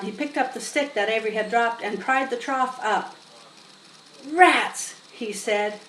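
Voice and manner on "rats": a touch of annoyed. Acted. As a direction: exclaim in disgust. Lurvy discovering rat nest.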